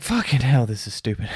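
mock fed-up groan at the screen; exasperated viewer. Viewer mocking the movie's stupid scene, exasperated. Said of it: "And you're just like".

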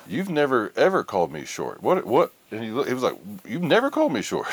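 indignant retort, pitched high; the boyfriend, offended, firing back; pissed off. Retold or imitated. The boyfriend snapping at his girlfriend, high and indignant. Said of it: "He was pissed".

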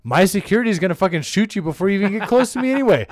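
loud, worked-up alpha-male bragging; hammed-up rich alpha rant; mock alpha boasting. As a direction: brag loudly like a self-styled alpha.

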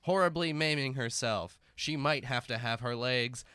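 slow dramatic narration; narrator voice. Acted. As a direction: narrate the drive gravely and slowly. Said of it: "narrator voice".

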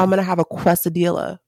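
"quesadilla" said the English way, loud; anglicized food word. Acted. Friend mimics people ordering Mexican food, anglicized "quesadilla". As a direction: read "quesadilla" like an American would. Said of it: "How else are they gonna say it".

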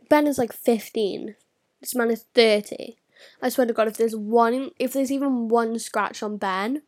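angry rant. Real, not acted. Angry rant about Ben's attacker.

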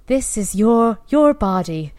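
lightly imitated soothing Irish guide; a hint of a calm hypnobirthing voice, stressing "your"; soothing Irish app voice. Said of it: "Her voice was just so soothing".

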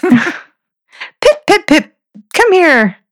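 high, singsong call to a pet; calling a dog. Pretend. Owner calling the dog Pip home, high singsong call. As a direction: call the dog in with a high mock-British coo.

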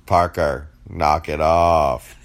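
slow stern warning; firm scolding. Real, not acted. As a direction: tell the cat off firmly.

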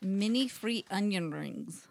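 slow, careful attempt at a Russian accent; tentative Russian-accented product reading. Shown as a demonstration. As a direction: read the snack name slowly with a Russian accent. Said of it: "gonna read it in her Russian accent".

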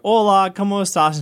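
eager greeting. Retold or imitated. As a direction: greet her brightly in Spanish. Greeting wife in Spanish.

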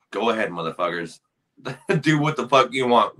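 half-laughing, throwaway permission; mock careless go-ahead. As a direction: toss it off with a laugh. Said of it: "we're like".

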